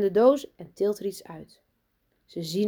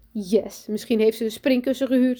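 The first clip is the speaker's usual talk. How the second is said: put-on higher, mildly excited child; enthusiastic; 5 semitones higher, 6 dB louder than usual. A narrator's reading. Sanne guesses at bouncy castles, mildly enthusiastic. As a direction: let a hopeful excitement lift the voice. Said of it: "zegt Sanne enthousiast".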